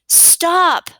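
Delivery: short, high, loud yell. Shown as a demonstration. Teacher showing pupils how to read an exclamation, yelled. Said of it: "Do you hear how I yelled the word stop".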